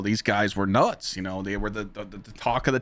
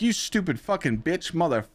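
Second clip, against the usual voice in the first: mock insult; 7 semitones higher than usual. Insulting the troll back.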